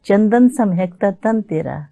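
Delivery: slow, measured poem recital; stately nazm recitation. Acted. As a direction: recite it like at a mushaira.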